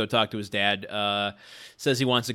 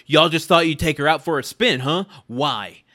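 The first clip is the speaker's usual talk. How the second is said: mock angry mom; 3 semitones higher, 5 dB louder than usual. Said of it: "She is pissed".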